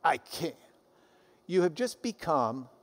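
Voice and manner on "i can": condescending. Retold or imitated. Preacher imitating a proud helper talking down to a sinner, smug. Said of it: "You start thinking more highly of yourself".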